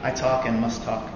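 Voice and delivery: normal talking voice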